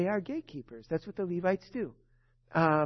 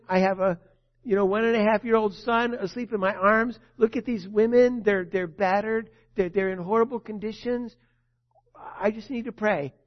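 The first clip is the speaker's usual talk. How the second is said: desperate prayer; 2 semitones higher, 6 dB louder than usual. Retold or imitated. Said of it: "She prayed in her desperation".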